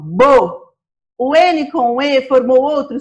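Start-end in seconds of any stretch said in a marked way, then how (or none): 0.0-0.7 "Bo" said alone as one sound; isolated syllable. Shown as a demonstration. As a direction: give just the syllable "Bo". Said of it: "formou apenas um som".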